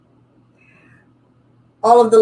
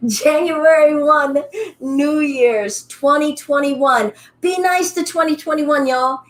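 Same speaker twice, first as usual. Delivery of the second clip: playful upbeat; 6 semitones higher than usual. Real, not acted. Playful New Year's talk.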